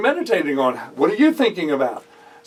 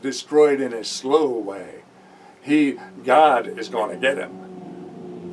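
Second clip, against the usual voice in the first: lower, bitter muttering servant, slowing down; 4 semitones lower than usual. Retold or imitated. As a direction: grumble it like a resentful servant nursing a grudge. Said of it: "a lot of servants would say".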